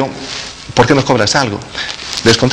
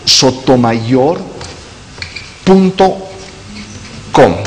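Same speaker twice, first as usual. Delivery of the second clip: slow dictation; slower than usual. Shown as a demonstration. Guest dictates his website to viewers, slow and clear. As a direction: dictate "Calla Sotomayor punto com" very slowly, word by word. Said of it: "Anótelo para que podamos".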